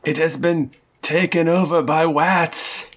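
W for R, "wats" for rats; Elmer Fudd w. Acted. GM as the cat, mispronouncing rats as "wats". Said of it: "You're just inserting W's".

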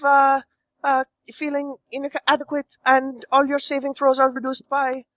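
lightly voiced sultry woman; Roz voice. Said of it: "to the Roz voice".

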